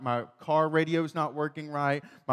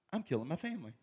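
laughing dread; 12 dB quieter, faster than usual. Retold or imitated. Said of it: "And I'm like".

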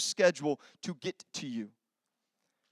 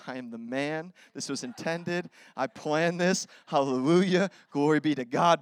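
smug turnaround; 4 semitones lower than usual. Retold or imitated. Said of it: "I was like".

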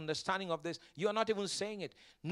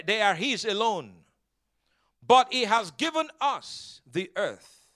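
loud, deliberate pulpit delivery; emphatic preaching; 8 dB louder than usual. Real, not acted. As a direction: proclaim it firmly, pausing between phrases.

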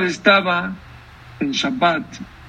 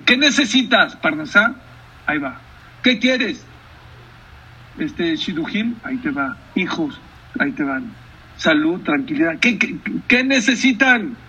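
generous God. Acted. God handing out gifts, voiced.

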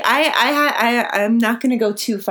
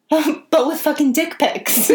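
laughing; 7 semitones higher, slower than usual. Real, not acted. Joke punchline with laughter.

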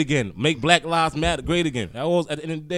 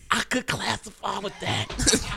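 put-on high-pitched American accent, building to loud; 6 semitones higher, 3 dB louder than usual. Proud American declaring himself a Yankee boy, in a high put-on American accent. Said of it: "I thought he had an accent".

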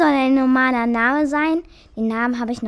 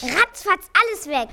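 high, quick-witted outburst; defiant blurt; 6 semitones higher than usual. Acted. Mouse saying the forbidden word to the cat, blurting it out. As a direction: blurt it out high before being stopped.

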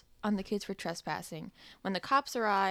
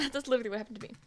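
whispered laugh; 2 semitones higher, much faster than usual. Real, not acted. Quick laughing aside.

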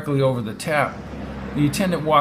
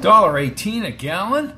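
higher-pitched indignant question; demanding; 5 semitones higher, 4 dB louder than usual. Acted. Brady seeing the gas price, indignantly demanding. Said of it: "he demanded".

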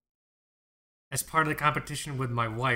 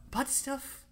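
incredulous; 13 semitones higher, 5 dB quieter than usual. Real, not acted. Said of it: "incredulous repeat".

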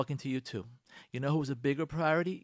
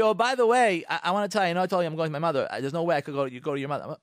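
lightly voiced wife, brushing it off; the wife casually backing out of plans; voicing the wife; 3 dB louder, faster than usual. Wife telling husband she won't come, lightly voiced.

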